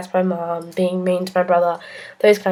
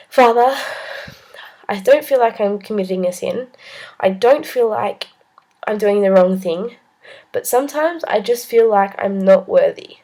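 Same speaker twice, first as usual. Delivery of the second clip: pleading to the priest, a little louder; earnest plea; 3 dB louder than usual. Retold or imitated. Confessing to the priest, earnest and pleading. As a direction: voice it as a heartfelt confession. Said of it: "these are my words to him".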